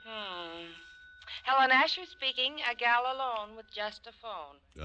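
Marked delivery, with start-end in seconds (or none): 1.4-4.8 louder, higher jokey self-introduction; mock phone announcer. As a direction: tease him with her own slogan. Mock announcing herself like him.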